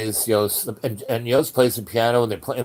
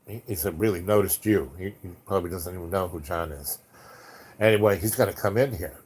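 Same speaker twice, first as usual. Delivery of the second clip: lower, softer, hushed and hurried; nervous confession; 4 semitones lower, 4 dB quieter than usual. Retold or imitated. Yos warning the narrator about the agent, hushed and tense. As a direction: keep it low so no one hears.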